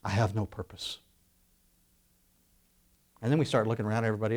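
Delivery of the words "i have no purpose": mock despair. Mock complaint of the hopeless.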